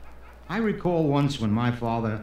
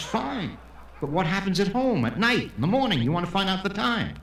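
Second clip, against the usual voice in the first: higher, pressing argument; challenging objection; 6 semitones higher than usual. Acted. Israeli questions co-worker who has no watch, challenging. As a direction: press the point from a raised pitch.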